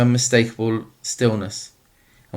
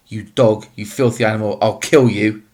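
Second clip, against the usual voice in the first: wild shout. Acted. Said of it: "The man was shouting wildly".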